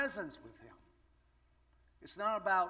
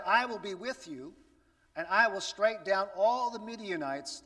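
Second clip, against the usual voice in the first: louder, firm declaration of God's promise; 3 semitones higher, 7 dB louder than usual. Acted. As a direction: proclaim it as a sure vow. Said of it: "He says".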